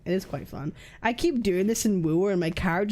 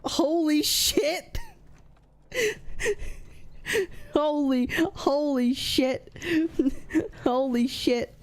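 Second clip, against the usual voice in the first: slow, drawn-out holy shit; stunned and laughing; shocked; 5 semitones higher, slower than usual. Real, not acted. Excited shock at the game.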